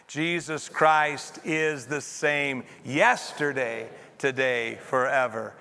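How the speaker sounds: measured group reading, "yesterday" standing out; stress on YESTERDAY. Shown as a demonstration. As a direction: lean hard on the word "yesterday". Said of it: "put the emphasis on a different word".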